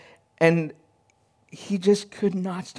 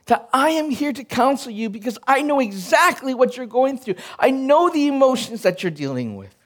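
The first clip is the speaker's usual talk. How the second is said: a lightly raised, gentle voice of God; 6 semitones higher than usual. Retold or imitated. God reassuring the grieving believer, lightly voiced and gentle. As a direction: speak as a loving counselor. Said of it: "And God's like".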